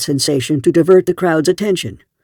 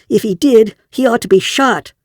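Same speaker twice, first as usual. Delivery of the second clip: sharp retort; 8 semitones higher than usual. A narrator's reading. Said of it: "flashed a Venusian girl".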